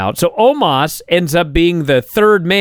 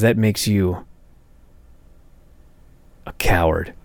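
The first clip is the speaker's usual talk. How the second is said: low mock taunt; 11 semitones lower, 5 dB quieter than usual. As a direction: voice it deep like a gloating wrestler. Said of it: "So A J says".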